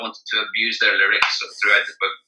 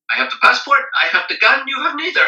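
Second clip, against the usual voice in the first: mock polite policeman; 12 semitones higher than usual. Policeman's polite extortion quote.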